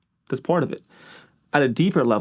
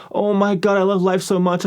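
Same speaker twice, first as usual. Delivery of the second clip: higher, sarcastically overjoyed gushing; mock gushing joy; 5 semitones higher than usual. News viewer mocked, sarcastic fake joy. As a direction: ham up a fake rapture about life.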